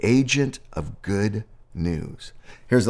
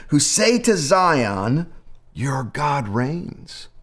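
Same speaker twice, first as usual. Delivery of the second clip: slow, solemn reading of the passage, lines stretched; scripture reading; slower than usual. Acted. Pastor reading Isaiah to the congregation, slow and solemn. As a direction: proclaim the verses slowly, as from a pulpit.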